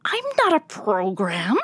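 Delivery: lightly voiced cat insisting; meowed. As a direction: insist like a cat who is hurt. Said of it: "the silver tabby meowed".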